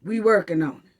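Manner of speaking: low dismissive brush-off; mock the official line; lightly mocked bureaucrat voice. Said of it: "another way of saying".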